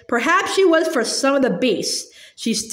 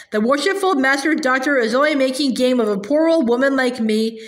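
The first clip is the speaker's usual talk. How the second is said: shrill whining hag. Acted. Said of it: "the shrill, whining voice began".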